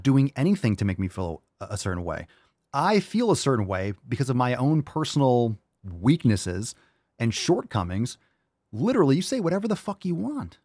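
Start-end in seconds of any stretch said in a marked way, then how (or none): none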